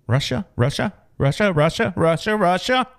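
quick-fire rising questions; repeated mock question, speeding up. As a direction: toss out each word as a sarcastic guess. Mock answer to who you gonna call.

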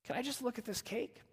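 quiet, fragile asking; soft, timid plea. Retold or imitated. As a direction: ask almost under her breath. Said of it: "slowly and softly says".

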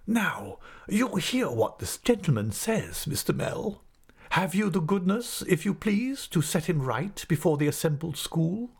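high, over-courteous schoolmaster, stern underneath; laboured politeness. A narrator's reading. Headmaster turns to his assistant with laboured politeness. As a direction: ask with exaggerated, heavy courtesy. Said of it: "with a severe frown and laboured politeness".

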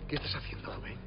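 hushed unvoiced question; whisper. Manager questioning clerk near an armed soldier, whisper. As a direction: ask under your breath.

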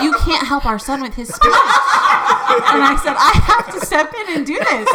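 retold wifely protest, amused; exasperated wife.

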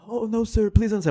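high, soft mock plea to the officer; a hushed, pleading little "no sir".

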